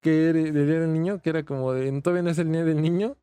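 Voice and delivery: hiccuping while talking; with hiccups. Real, not acted. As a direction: talk through hiccups. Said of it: "mi hipo".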